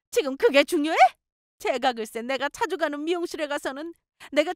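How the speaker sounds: very high-pitched tirade, rising to a shriek; ranting mother-in-law. Acted. Mother-in-law blames her for lost friends, ranting. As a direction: build from complaint to high outburst.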